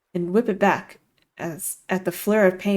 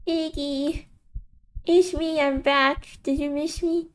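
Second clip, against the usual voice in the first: much higher, sing-song taunting voice; mocking inner voice; 9 semitones higher, slower than usual. The voice in his head greets Iggy, teasing and high. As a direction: tease him like a cruel old friend.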